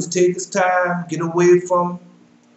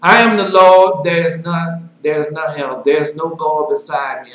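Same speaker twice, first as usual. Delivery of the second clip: solemn scripture reading; 3 dB louder than usual. Acted. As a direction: proclaim the verses like a preacher. Preacher reads scripture aloud.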